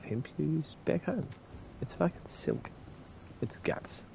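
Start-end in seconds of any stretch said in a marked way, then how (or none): 1.8-2.7 breathy hushed whisper. Pretend. Whispered game joke. 3.4-4.0 soft unvoiced whisper. Whispered follow-up joke.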